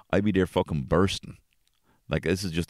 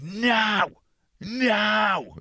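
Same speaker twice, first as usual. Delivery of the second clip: put-on child refusing. Son refusing dad's advice to pee, high shrill no. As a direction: shriek it like a stubborn toddler.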